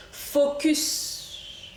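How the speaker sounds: hushed self-pep whisper; breathy whispered resolve to concentrate; whispered focus. Real, not acted. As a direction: whisper it to yourself, steadying. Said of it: "Mais là, je vais prendre sur moi".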